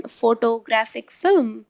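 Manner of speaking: lightly imitated Indian English, hard T; Indian accent. Teacher imitating a student from India, Indian accent. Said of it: "talking about a student from India".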